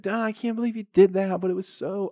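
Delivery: a smitten hen gushing over the winner; swooning hen. Retold or imitated. Hen swooning over the rooster's win, high and hushed. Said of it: "now she's like".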